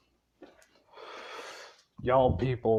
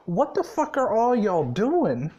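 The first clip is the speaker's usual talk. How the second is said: high, exasperated call-out; exasperated yell; 7 semitones higher than usual. Retold or imitated. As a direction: yell it at the crowd, annoyed. Gray calls out the crowd, retold.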